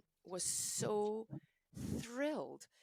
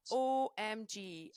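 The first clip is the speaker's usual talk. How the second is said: emphatic; 4 semitones higher, 5 dB louder, much slower than usual. Real, not acted. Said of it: "slow emphatic OMG".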